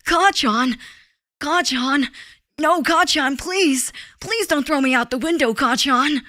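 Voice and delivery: put-on high, pleading anime boy voice; Deku. Deku begging Kacchan for mercy, pleading impression. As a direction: beg like a panicked cartoon hero. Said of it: "maybe Deku is more like".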